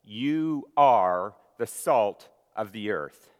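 slow and loud, "are" stressed; emphatic. Shown as a demonstration. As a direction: lean slowly on "are" to show the Greek emphasis. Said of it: "very emphatic".

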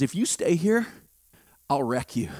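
low, soft, menacing devil voice; quiet threatening whisper of the devil; devil's whisper. Retold or imitated. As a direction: hiss it low like the tempter. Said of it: "He whispered this".

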